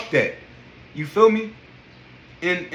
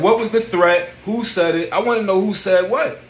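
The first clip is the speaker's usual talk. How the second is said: raised, insistent questioning; indignant demand; 3 semitones higher, 4 dB louder than usual. Retold or imitated. Accused member questioning gym staff, indignant. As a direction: demand answers, mildly indignant. Retold challenge to gym's accusation.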